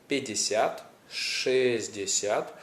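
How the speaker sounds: пятьдесят said as пдесят, шестьдесят as шздесят; shortened forms. Shown as a demonstration. Teacher showing the everyday short forms. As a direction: clip both middles short. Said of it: "People would rather say".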